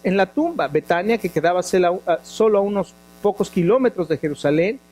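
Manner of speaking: measured, even Bible-reading voice; scripture reading. Acted. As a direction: read the passage steadily to the congregation. Reads scripture passage aloud.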